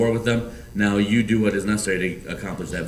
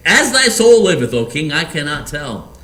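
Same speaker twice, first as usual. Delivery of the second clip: much higher and louder, like an earnest servant; Abner answering the king; 5 semitones higher, 6 dB louder than usual. Acted. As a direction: cry it up to the king with devotion.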